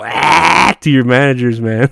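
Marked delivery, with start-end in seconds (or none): 0.0-0.8 demo ah. Shown as a demonstration. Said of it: "do what I do and just go".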